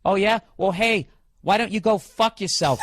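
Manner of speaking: Boston accent, hard and combative; aggressive Boston accent. Real, not acted. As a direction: snap back in a Boston accent. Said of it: "that aggressive Boston accent".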